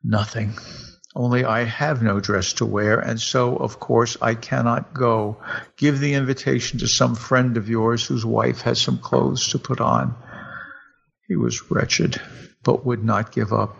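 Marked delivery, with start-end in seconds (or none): 0.0-10.1 calm voice. Acted. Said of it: "answered in a calm voice".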